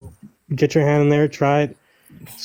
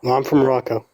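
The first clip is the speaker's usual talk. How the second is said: Moroccan accent. Real, not acted. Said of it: "I can hear that Moroccan accent".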